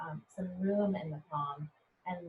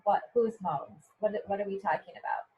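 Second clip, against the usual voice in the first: mock puzzled reader; 3 dB louder than usual. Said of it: "to think about".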